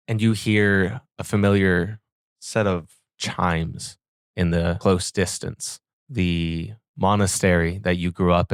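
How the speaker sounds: measured, even scene-setting storytelling; game master narration. A narrator's reading. Game master describing the devil's change to players, measured narration. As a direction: narrate evenly with deliberate pauses.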